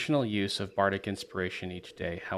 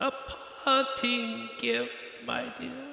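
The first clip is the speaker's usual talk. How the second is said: faint, distant, faraway whisper; 5 dB quieter than usual. Voicing Baba Yaga's parting words after the link cuts off: distant voice. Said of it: "this last little distant".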